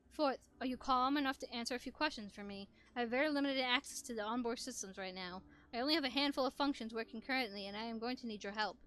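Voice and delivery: calm, even robot voice. Acted. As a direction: speak like a steady robot. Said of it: "I was trying to go for a robot voice".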